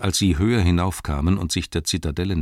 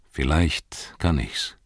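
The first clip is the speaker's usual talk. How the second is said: slow, weighing reply; hesitant pondering; slower than usual. Acted. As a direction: answer slowly, still undecided. Gandalf weighs a hard choice.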